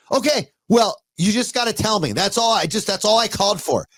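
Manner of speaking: high-pitched, defensive mock slur; slurring mother. Mother insisting to her son she's fine, slurring. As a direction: imitate a woozy mom insisting she's fine. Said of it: "You're slurring your words".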